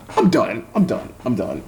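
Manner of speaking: defeated sigh of i'm done; fading i'm done. Real, not acted. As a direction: give up, let it sink to nothing. Ranting, voice drops each time.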